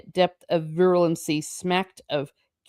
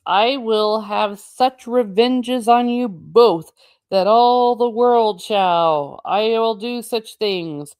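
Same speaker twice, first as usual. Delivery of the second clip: slow, raised, vengeful recital; vengeful declamation; 4 semitones higher, 4 dB louder than usual. Acted. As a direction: pronounce it like a curse. Reciting King Lear's vengeful curse.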